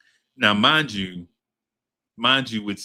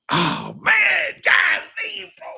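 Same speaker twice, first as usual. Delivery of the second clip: excited shout; 4 dB louder, much slower than usual. Real, not acted. Reacting to a great song pick.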